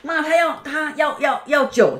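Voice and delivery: high, pleading call to mom; a kid tugging mom's attention; urgent child calling. Retold or imitated. Kid telling mom the visitors want wine, high and urgent.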